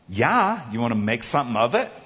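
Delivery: put-on cheeky kid's challenge; snarky. Kid talking back to the big guy, snarky. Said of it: "this snarky voice say".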